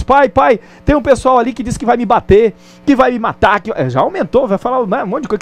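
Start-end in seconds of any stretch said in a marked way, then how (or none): 0.0-3.6 put-on scared child. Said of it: "gruda na calça do pai e diz".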